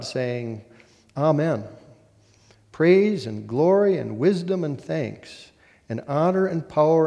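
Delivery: solemn, measured Bible reading with long pauses; formal lectern reading; scripture reading. Acted. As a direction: proclaim the passage to a congregation, lifting key words. Reads the scripture text aloud.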